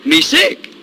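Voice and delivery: "Me sick" said high with a rising end; high rising take. Retold or imitated. Stubborn chief answering again, high and rising.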